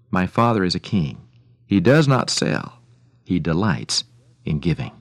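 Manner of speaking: lively, measured radio storytelling; story narration. A narrator's reading. Radio host telling listeners an old story, animated narration. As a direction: tell it like an old tale, with emphatic swells.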